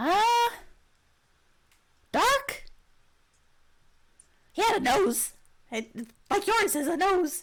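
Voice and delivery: high-pitched, loud kobold voice. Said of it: "I love the kobold voice".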